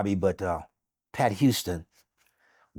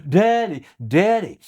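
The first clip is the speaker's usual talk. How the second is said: mild mock scream, pitched up; higher-pitched retold cry; 5 semitones higher than usual. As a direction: imitate her calling out for Dad, higher. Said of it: "And she was screaming".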